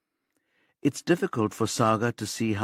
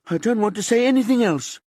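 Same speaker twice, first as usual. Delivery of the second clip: high, loud refusal; shouted refusal; 13 semitones higher, 5 dB louder, faster than usual. A narrator's reading. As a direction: yell it to shut them out.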